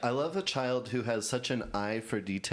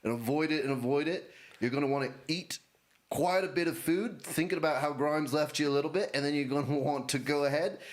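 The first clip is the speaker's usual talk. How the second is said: put-on Australian accent. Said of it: "Nationally ambiguous Elon Musk".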